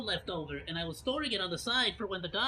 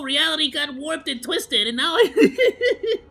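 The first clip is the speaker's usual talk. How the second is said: mock spooky; 6 semitones higher, 10 dB louder, slower than usual. Spooky drawn-out voice, then laughs.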